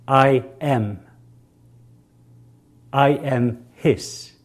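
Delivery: words laid out slowly for the crowd to echo; spacing each word so they can repeat; slow leading phrase. Shown as a demonstration. Preacher slowly leading the congregation in an affirmation. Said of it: "now I want you to say it".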